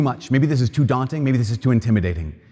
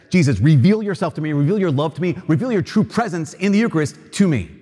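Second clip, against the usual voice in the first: desperate plea; 5 semitones higher than usual. Shown as a demonstration. Mentor showing Rick how to beg Jesus, desperately pleading. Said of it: "just that you're desperate".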